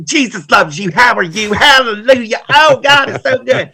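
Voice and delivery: high, syrupy over-sweet churchgoer parody; mock fake Christian. Mocking Stepford Christians greeting newcomers, high and sugary. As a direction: parody a robotic, fake-cheery believer.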